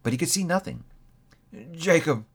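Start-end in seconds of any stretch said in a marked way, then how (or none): 1.7-2.2 pleading, voice pitched up; imploring. A narrator's reading. Scrooge begging Marley's ghost, imploring. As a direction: Scrooge begs his dead partner, pleading. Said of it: "he said imploringly".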